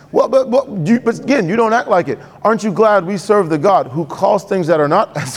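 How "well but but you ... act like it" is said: mock accuser. Voices accuser again.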